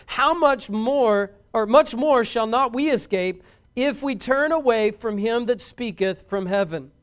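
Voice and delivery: measured, solemn King James reading; scripture reading. Acted. Preacher reading Hebrews to the congregation, solemn and measured. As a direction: read the verse with weight and space.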